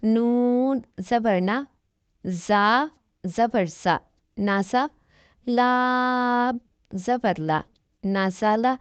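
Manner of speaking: slow, drawn-out syllable spelling; teacher reading the Qaida aloud slowly; spelling drill. Shown as a demonstration. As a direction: sound out each letter slowly for a child. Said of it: "میں پڑھ کر سناتی ہوں".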